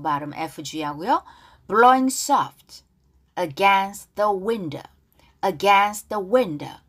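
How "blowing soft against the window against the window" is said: louder, very slow, stretched words; slow, drawn-out model reading. Shown as a demonstration. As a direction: lay it out gently for students to echo. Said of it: "가사 발음 따라볼게요". (크고 아주 느리게 늘여서)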